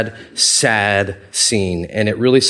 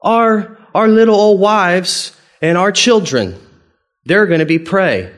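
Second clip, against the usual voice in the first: high, loud wailing protest; hammed-up tearful outrage, pitched way up; mock crying; 10 semitones higher, 5 dB louder than usual. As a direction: imitate distraught people complaining to God. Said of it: "And they're crying".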